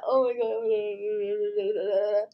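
spluttering, trailing squeak of disbelief; overcome, words dissolving into a wheeze; dying-rat voice. Real, not acted. Streamer overwhelmed by getting a neon cow, dying-rat voice. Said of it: "why do I sound like a dying rat".

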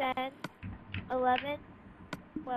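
loud countdown. Real, not acted. Host counting down grace period.

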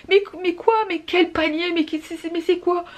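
high, startled questions; puzzled and caught off guard; retold startled bafflement; baffled. Startled reply to screaming boy.

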